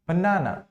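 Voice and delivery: बनाना with the middle "naa" stressed; stress on second syllable. Shown as a demonstration. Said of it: "हम इसको बोलते हैं बनाना". (बनाना के दूसरे सिलेबल पर ज़ोर)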